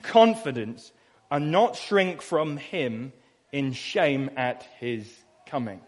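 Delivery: "confidence" slowed and weighted; stress on confidence. Shown as a demonstration. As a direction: hold "confidence" slowly. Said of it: "look at that word".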